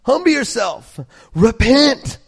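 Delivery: firm call to repent; stern command. Pretend. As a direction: command them to turn. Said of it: "So he just says".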